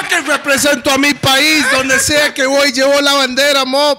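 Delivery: proud boast. Real, not acted. Proud boast about representing country.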